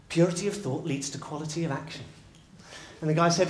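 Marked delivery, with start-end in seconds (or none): 0.1-2.0 unhurried, at an ordinary volume; measured wisdom. Acted. Storyteller gives troubled man some wisdom, measured. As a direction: offer it as a considered maxim.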